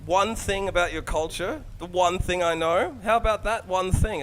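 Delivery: mock know-it-all, drawn out and loud; mock clueless tourist. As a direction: play the clueless visitor bragging slowly. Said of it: "by saying".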